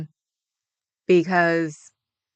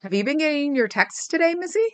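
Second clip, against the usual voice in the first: pet talk; 9 semitones higher than usual. Real, not acted. Talking to her pet.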